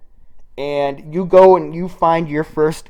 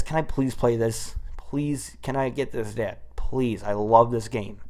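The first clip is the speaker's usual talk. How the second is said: put-on pleading kid; 3 semitones lower, 7 dB quieter than usual. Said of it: "and I'm like".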